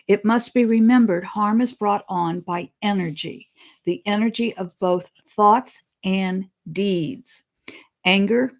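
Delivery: solemn read-aloud of a spirit's words; reading a channeled message. Acted. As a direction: deliver the message deliberately, like scripture.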